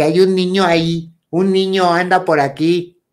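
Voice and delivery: high, loud report of a sighting; retold shouting. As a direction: call it out in alarm to your mother. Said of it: "así gritando".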